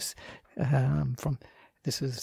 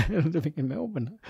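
laughing; 3 semitones higher than usual. Real, not acted. Chuckles at own changed living situation.

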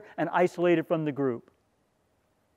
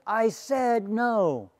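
put-on mumbled teen reply; 7 semitones higher, much slower than usual. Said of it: "She said".

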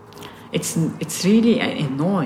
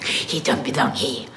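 mocking quote; 5 semitones lower, 6 dB quieter than usual. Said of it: "somebody comes to you and says".

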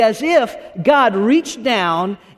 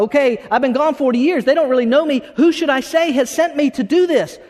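lightly acted doubter, pitched higher; Moses; 5 semitones higher than usual. Moses answering God about being sent, lightly acted objection. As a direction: object in a raised voice, mildly acted. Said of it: "And Moses like".

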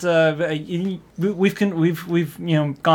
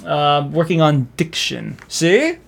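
mid-Atlantic snooty accent; slower than usual. Shown as a demonstration. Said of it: "mid-Atlantic snooty accent".

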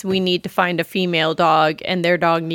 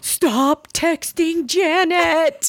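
slow order; 7 semitones higher, much slower than usual. Retold or imitated. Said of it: "I was like".

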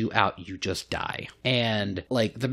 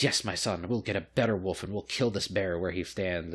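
lower-pitched put-on father; indulgent noble father; 4 semitones lower, 4 dB quieter than usual. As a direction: play a lord reassuring his brat lightly. Father answers spoiled son.

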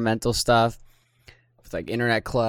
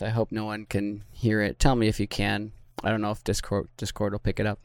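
talking while chewing gum; words around a wad of gum; 2 semitones lower, faster than usual. Real, not acted. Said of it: "I just put a piece of gum in my mouth".

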